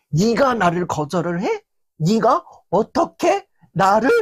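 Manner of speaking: lightly acted indignation, slowing on the second question; a touch of offended disbelief; understated hurt anger, not yet shouting; mild indignant huff. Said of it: "혼자서 막 씩씩거리고".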